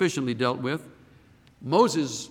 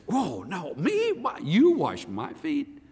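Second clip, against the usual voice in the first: mock astonished protest; 4 semitones higher, slower than usual. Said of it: "Or would you say".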